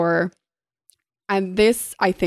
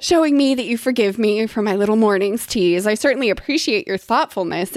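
lightly put-on gracious lady; airy, mock-genteel thanks; fancy tone; 2 semitones higher than usual. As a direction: play polite grandeur to cover hurt. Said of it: "but she still held to fancy".

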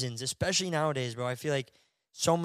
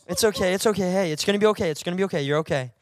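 mock comforting; 2 semitones higher, faster than usual. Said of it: "calming her down".

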